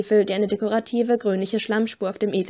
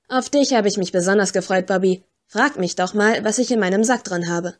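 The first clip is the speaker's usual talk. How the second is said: a hint of a rough, cheeky girl teasing the agents; brash scruffy mudlark. Narrator plays scruffy Flo teasing Kipps, lightly brash.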